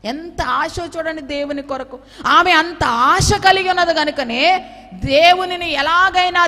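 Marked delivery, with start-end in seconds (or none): 2.3-6.5 fiery preaching. Acted. Preaching at full force.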